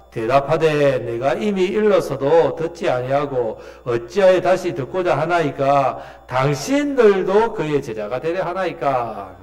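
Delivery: slow, measured Bible reading; scripture reading. Acted. Preacher leading the congregation in a verse, solemn reading. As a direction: read the verse aloud deliberately, drawn out.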